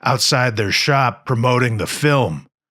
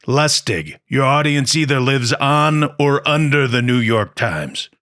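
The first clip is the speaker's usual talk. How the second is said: put-on brash New York accent; imitating a New York producer's accent; 3 semitones higher than usual. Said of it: "You guys like my New York accent?".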